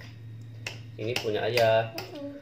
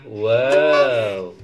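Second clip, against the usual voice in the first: excited wow; 9 dB louder than usual. Real, not acted. Showing off the rice.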